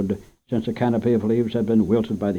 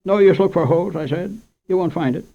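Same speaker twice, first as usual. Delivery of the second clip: lightly voiced earnest boy, higher; a boy confessing to the storekeeper, higher; 8 semitones higher, 4 dB louder than usual. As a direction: own up quickly. Boy confesses sack has hole.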